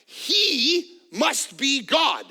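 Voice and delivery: high, loud, gushing dog voice, slowing near the end; grateful dog. Acted. Preacher voicing a devoted dog to the congregation, high and gushing. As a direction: gush like an adoring puppy. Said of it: "And a dog says".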